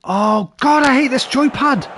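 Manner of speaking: loud, high rant at the joypad; angry outburst. Real, not acted. Streamer cursing his controller after a misfire. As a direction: spit it out in real annoyance.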